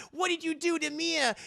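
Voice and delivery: high loud panic; alarmed high demand. Acted. Anna panicking at the villain, high and loud.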